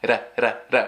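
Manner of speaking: "ra" with a quick tongue tap, like the Portuguese R; Portuguese flapped R. Shown as a demonstration. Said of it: "to make the sound of the R in Portuguese".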